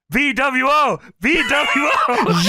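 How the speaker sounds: high, loud, stretched-out fan shout; imitated crowd yell. Somebody in the crowd yelling, high imitated holler. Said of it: "Somebody in the crowd yells".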